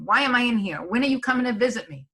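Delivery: acted worry, pitch lifted and pressing; panicked parent. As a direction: imitate an anxious loved one pleading for a visit. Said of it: "So they become panicked".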